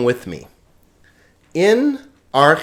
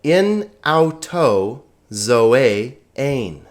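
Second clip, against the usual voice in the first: slow Greek read-aloud; much slower than usual. Shown as a demonstration. Reads Greek passage aloud.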